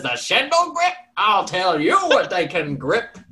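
high squawk then slow loud threat; hammed-up old farmer outrage; outraged old man. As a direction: spit it out indignant.

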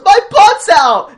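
high, loud, slow shriek of dismay; mock cartoon dog yell. Friend mocking the dog's line in a loud, high, slow shriek. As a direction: wail it like a silly cartoon dog. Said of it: "he goes".

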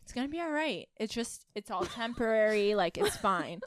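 soft, sinking reassurance; comforting. Acted. Alan patting crying Erin on the shoulder, comforting. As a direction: gently soothe a crying friend. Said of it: "goes and comforts her".

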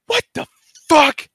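high-pitched mock yelp; retold yell. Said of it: "yell out".

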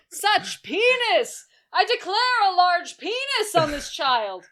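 rising mock awe over the boy; gushing crowd. Retelling the film, mock townsfolk gushing.

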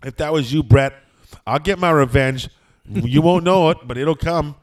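loud, hammed-up vow of vengeance; mock threat. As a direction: threaten him loudly, playing it for laughs. Acted vow of revenge.

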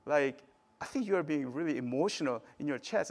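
gently checking in, at an easy volume; acted-out mild concern for a friend. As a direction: ask with care, without accusing. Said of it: "he said in a very, uh, you know, like, concerned way".

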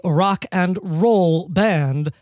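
slow, disdainful emphasis; derogatory. Real, not acted. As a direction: draw it out as if it were an insult. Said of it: "made rock and roll sound like a derogatory term".

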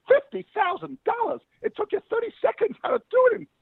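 shocked falsetto squawk, very high; mock a woman aghast at the price; outraged American woman. American woman protests Picasso's price, in shrieky mock shock. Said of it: "American woman's walking along the beach".

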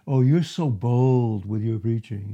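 lightly voiced mocking accuser; doubters' taunt. Doubters taunting Paul about his preaching, mocking. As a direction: imitate a critic's sarcastic jeer. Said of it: "they were saying to him".

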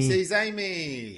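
drawn-out, high, loud mock swoon; playful teasing. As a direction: tease with a slow, high, loud echo. Co-host teasingly echoing the plot point.

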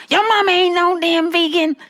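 high, sassy caregiver imitation; caregiver retort. Caregiver to daughter, high sassy retort. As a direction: toss it back high and sassy. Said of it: "she talking about".

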